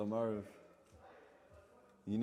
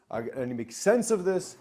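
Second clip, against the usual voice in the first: voicing the mind; 7 semitones higher, 8 dB louder than usual. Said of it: "the mind is".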